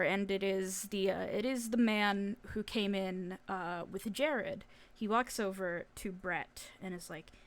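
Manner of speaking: usual speaking voice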